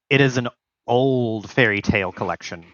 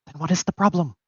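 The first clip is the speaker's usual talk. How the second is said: tag; 7 semitones higher, faster than usual. Acted. Plays Pierre questioning upset friend.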